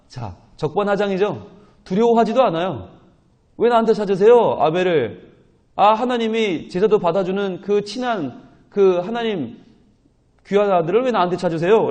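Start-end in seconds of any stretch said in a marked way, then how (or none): 3.6-11.9 blunt, resentful back-talk, a bit higher; sulky retort. Retold or imitated. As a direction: toss the question back sullenly, half-acted. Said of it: "퉁명거리죠". (퉁명스럽게 되받아치는 말투)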